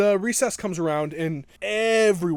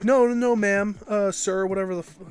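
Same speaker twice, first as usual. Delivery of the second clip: louder, higher hurried denial; flustered denial; 4 semitones higher, 6 dB louder than usual. Retold or imitated. Kid caught by a teacher, loud flustered denial. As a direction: talk fast over the teacher, loud and flustered.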